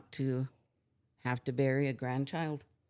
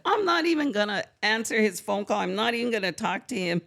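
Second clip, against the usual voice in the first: retold anger; 8 semitones higher, 7 dB louder, faster than usual. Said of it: "I was so upset".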